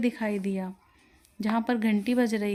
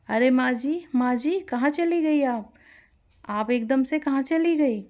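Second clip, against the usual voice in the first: calling after someone; 4 semitones higher, 4 dB louder than usual. Acted. Calling after vanished old woman.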